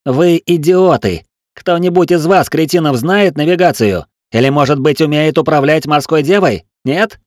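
high, loud contemptuous dressing-down; scornful tirade. A narrator's reading. Tiel berates the mutinous crew, scornful loud tirade. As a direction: tear into them with scorn.

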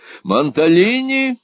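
high, indignant call of the name; cried in reproof. A narrator's reading. Wife shocked by husband's compliment, high cry. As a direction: rebuke him with his name. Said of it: "вскричала мадам".

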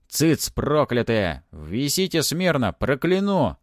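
loud, slow, rising command; angry threat. A narrator's reading. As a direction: cow the spirits into silence. Mummy threatens the clamouring spirits.

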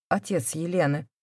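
usual speaking voice

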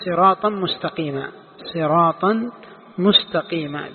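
صراطا with an -an ending, nunated; pronounced with tanween. Shown as a demonstration. Teacher showing the irregular reading, صراطا with nunated ending. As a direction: sound the final n of صراطا before مستقيما. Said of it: "بالتنوين".

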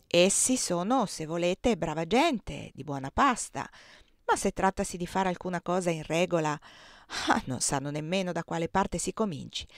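put-on proud old cook bragging about her cakes, lightly done; lightly voiced Aunt Clo. Zia Clo scorns the Lincolns. (la zia Clo, voce di cuoca orgogliosa appena accennata)

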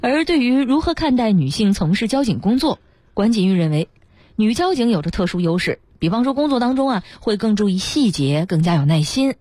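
measured, articulated report narration; radio feature reading. A narrator's reading. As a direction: present it as a prepared human-interest story. Reads out a prepared feature.

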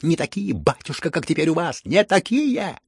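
building hysterical gloating retort. A narrator's reading. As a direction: spit it back with malicious glee. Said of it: "Со злорадством, как бы в истерике".

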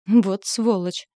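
slow, spat-out curse; spat insult. Acted. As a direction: spit the word at his smug face. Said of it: "выплюнула".

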